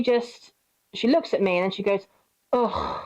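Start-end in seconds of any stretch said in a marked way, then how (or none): 2.5-3.0 mock groan of sheer disgust. Cousin brushing off a hello, disgusted groan. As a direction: imitate a short, disgusted ugh. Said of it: "gives me a look of sheer disgust".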